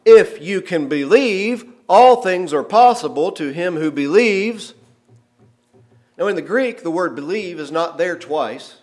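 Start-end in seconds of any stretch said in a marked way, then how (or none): 0.0-4.7 Jesus replying. Retold or imitated. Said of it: "where Jesus replies".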